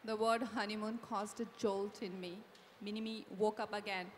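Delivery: story narration. A narrator's reading. Radhika narrating her jolt to readers, measured storytelling. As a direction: narrate it evenly, a little low. Reads book narration aloud.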